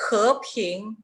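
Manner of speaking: "he, ping" both syllables rising; second tones. Shown as a demonstration. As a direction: lift each syllable of "he, ping". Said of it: "en el segundo tono".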